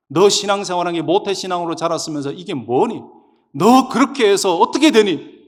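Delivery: stern rebuke. Retold or imitated. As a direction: scold as if demanding an explanation. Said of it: "이러면서 막 책망하시는데".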